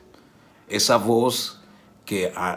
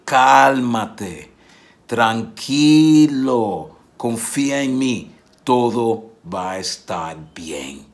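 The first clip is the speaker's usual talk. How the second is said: louder, slow, steady calming words; firm calm reassurance; 6 dB louder, much slower than usual. Retold or imitated. Jesus to Jairo, firm and slow reassurance. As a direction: settle him down with a firm, slow voice.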